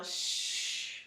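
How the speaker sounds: long unvoiced breath out through the teeth; exhale hiss. Shown as a demonstration. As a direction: blow the air out on a steady shh.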